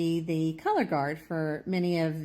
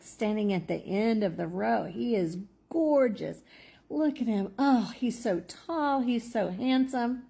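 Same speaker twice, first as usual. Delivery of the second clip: swooning; 4 semitones higher than usual. Retold or imitated. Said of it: "she said".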